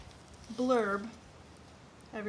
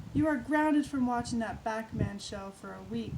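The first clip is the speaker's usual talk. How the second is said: yelling; 5 dB louder than usual. Acted. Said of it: "she yelled".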